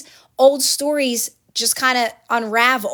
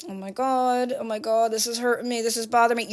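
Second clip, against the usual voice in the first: hushed, shaken muttering to yourself; quietly panicking under your breath, softer; mock inner worry, hushed; distressed inner voice; 6 dB quieter than usual. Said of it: "And you're going".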